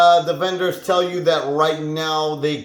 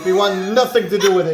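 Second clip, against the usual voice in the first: higher, fast, through a laugh; 4 semitones higher, much faster than usual. Acted. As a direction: blurt it out laughing. Vendor refusing, laughing.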